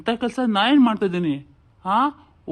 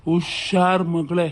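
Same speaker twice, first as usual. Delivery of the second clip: drawn-out menacing warning; slow, menacing husband's warning; slow threat; much slower than usual. Acted. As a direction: spell out the threat slowly. Husband warns wife.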